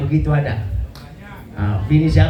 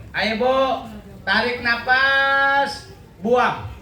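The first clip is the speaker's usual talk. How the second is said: a higher, drawn-out "tarik nafas"; mock doctor coaching; 8 semitones higher, much slower than usual. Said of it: "Kata dokter". (dokter memandu napas ibu, nada tinggi)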